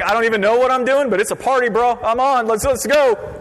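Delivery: hyped-up bro; mock party enthusiasm. Charismatic worshiper rallying a friend, excited. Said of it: "at times it's like".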